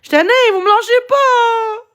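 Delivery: supplie en sanglotant; la voix brisée par les larmes; en pleurs. Real, not acted. En pleurs face au harcèlement. (pleure en suppliant le chat)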